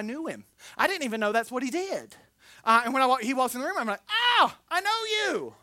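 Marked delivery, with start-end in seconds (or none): 4.1-5.5 higher, slow delighted recognition; surprised recognition. Retold or imitated. Patient recognizing his surgeon from church, surprised delight. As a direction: spot an old friend walking in.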